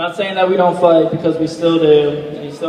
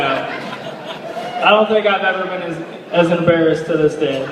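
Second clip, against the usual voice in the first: laughing; slower than usual. Real, not acted. Laughing at embarrassing memory.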